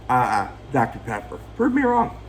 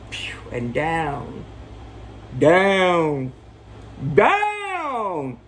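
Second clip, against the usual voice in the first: mock falling; 3 semitones higher, much slower than usual. Recapping the fall from the window, building mock drama.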